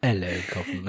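a light put-on British accent greeting Kaufman. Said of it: "I'm gonna have to keep it going".

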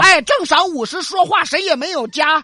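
put-on old granny voice. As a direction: play a loud Guang'an granny. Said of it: "两个广安老妹儿们儿".

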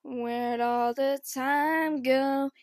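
dreamy drawl. Retold or imitated. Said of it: "I'd just be like".

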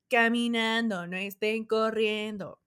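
guards scolding. Retold or imitated. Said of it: "Y los guardias".

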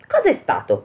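high-pitched startled question; acted jolt of fright, high in pitch; terrified exclamation. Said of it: "esclamò atterrito uno dei ladri". (esclamazione atterrita, acuta)

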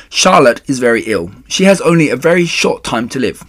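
emphatic, somewhat loud explanation; urgent pleading. Acted. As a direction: press the case earnestly. Wilbur urgently pleading with rat.

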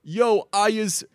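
high, drawn-out catchphrase impression; Ollie G. Fan retelling a TV episode to friends, hammy character impression. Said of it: "so Ollie G's like".

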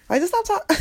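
high-pitched, cracking up mid-word; words give way to a laugh; breaking into laughter. Real, not acted. Fed up with talkers, breaking into laughter.

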